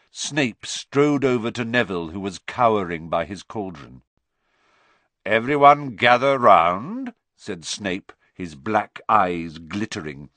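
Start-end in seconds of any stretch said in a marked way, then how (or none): 5.2-7.1 loud summons; commanding call. Acted. Snape summoning the class to watch the toad, loud command. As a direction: call everyone over sharply.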